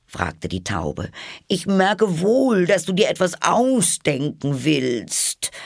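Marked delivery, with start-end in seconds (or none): 1.5-5.5 high, slow squawk; suspicious pigeon. A narrator's reading. Pigeon suspects Alice is inventing something, accusing. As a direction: accuse her in a drawn-out bird voice.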